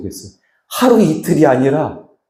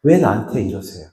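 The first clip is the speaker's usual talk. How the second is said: ordinary talk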